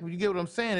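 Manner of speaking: normal talking voice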